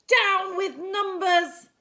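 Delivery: loud, slow, high chant; mob yell. Acted. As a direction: yell it like an angry crowd. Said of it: "they yelled".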